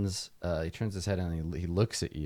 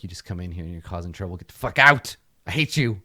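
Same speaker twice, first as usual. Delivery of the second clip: hostile; 5 dB louder, faster than usual. Acted. Tabitha throws the player out.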